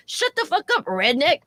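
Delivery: very high shrill put-on shriek; shrieking drunk insult. Drunk woman shrieking an insult at Marcus. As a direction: screech it at him.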